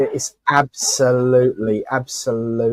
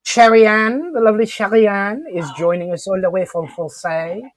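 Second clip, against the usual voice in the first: a badly faked South Coast accent, pitched higher and louder; hammed-up South Coast accent greeting, higher; terrible Sherry accent attempt; 6 semitones higher, 4 dB louder than usual. Host greets Sherry Ann in a bad South Coast accent. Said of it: "that was a terrible attempt at your accent".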